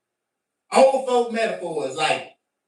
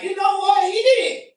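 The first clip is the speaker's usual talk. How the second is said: emphatic agreement; 12 semitones higher, 6 dB louder than usual. Retold or imitated. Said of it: "And I was like".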